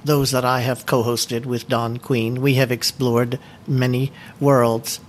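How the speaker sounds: measured, deliberate presentation reading; steady formal delivery of a prepared script. Acted. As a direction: read it like a prepared talk to a book club. Reads prepared book presentation.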